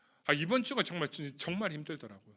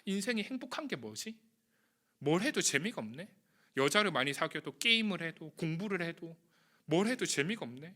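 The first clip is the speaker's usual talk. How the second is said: lonely youth lament. Retold or imitated. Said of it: "막 이렇게 하면서 굉장히 혼자 막 방황하면서".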